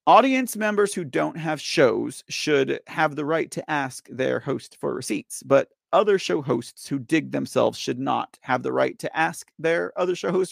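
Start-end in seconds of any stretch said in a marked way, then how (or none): 0.1-8.0 slow, carefully enunciated words; speaking clearly. Real, not acted. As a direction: lay it out slowly and plainly. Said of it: "let me just speak clear".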